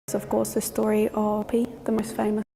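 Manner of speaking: hushed ghost-story whisper. Real, not acted. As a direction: lean in and whisper the legend. Spooky ghost story hush.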